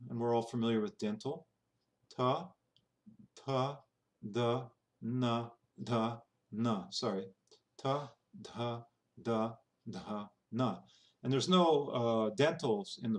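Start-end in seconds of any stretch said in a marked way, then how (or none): 2.1-6.9 TA, DA, NA with tongue on the teeth; dental consonants. Shown as a demonstration. Teacher demonstrating the dental row, tongue behind teeth. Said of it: "the next one is dental". 7.8-10.8 TA, DA, NA with tongue on the teeth; dental consonants. Shown as a demonstration. Teacher repeating the dental row, tongue behind teeth. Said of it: "the next one is dental".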